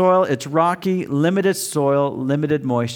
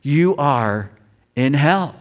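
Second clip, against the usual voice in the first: starts hushed in the dark then climbs to a screaming, much higher, louder roar; building hellfire scare; 12 semitones higher, 9 dB louder than usual. Retold or imitated. Teen evangelist scaring friends in dark barn, hush rising to scream. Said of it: "turn off all the lights and say".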